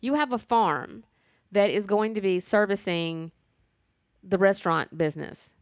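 sassy, emphatic telling-off with pointed pauses; neck-rolling sass. Acted. Viewer scolding the farmer guy over his remark, sassy. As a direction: talk back to her, punching the key words. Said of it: "kinda rolling my neck going".

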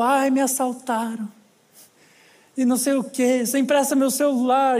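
a mild hint of drunken pleading; drunk woman. Drunk woman asks to borrow his phone, mildly slurred. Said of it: "ela vem bêbada".

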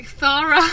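"Thara" with a lisped th for s; imitating a lisp. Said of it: "I know one person that has a lisp".

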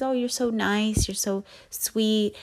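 a hint of a gushing friend; sweet mock compliment. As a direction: gush lightly like a polite acquaintance. Mimicking people's sweet compliments.

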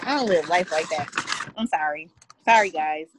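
talking while eating wings; words round a bite of food; mouth full. Real, not acted. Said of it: "I'm eating Wingstop".

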